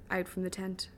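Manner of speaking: ordinary delivery, nothing marked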